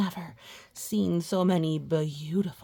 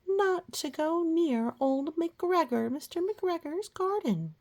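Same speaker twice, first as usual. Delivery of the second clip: mother warning; 10 semitones higher than usual. A narrator's reading. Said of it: "called Missus Rabbit".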